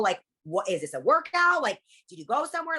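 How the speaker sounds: high, gushing excitement; mock amazed admirer. Friend marvelling at the patient's results, mock gushing. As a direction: gasp it like a stunned friend.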